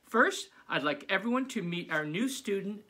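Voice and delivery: high, loud eager teacher; bubbly teacher announcing surprises. Acted. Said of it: "said Missus Zappi".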